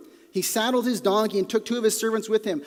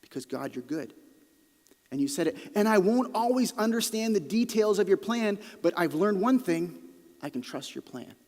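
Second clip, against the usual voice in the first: quiet trust. Shown as a demonstration. Preacher quietly telling God he trusts him. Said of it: "declaration of faith".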